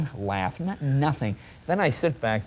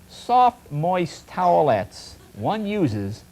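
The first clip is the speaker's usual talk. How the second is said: mock product blurb; slower than usual. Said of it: "this is how it's described".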